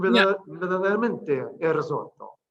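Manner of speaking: mild Italian accent on the response; playful, lightly put-on Italian accent. Shown as a demonstration. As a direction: answer with an Italian lilt. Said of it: "Italian and Italian accent".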